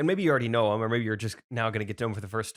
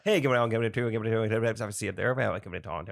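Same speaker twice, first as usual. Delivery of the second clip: auctioneer voice; faster than usual. Retold or imitated. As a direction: rattle it off like an auctioneer. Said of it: "Talk to them like an auctioneer".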